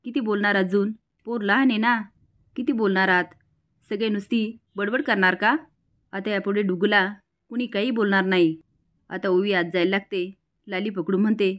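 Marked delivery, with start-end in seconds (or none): 0.0-8.6 scolding yell. Acted. Uncle scolds Lali to defend the child, mild shout. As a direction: shut the nagging aunt up, firmly. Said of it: "आणि लालीला ओरडतो".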